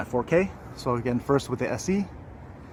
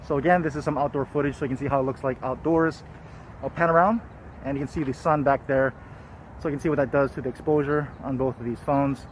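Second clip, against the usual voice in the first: talking through a face mask; muffled by face mask. Real, not acted. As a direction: speak muffled behind a cloth mask. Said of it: "I am wearing a face mask, so I'm sorry if the audio is muffled".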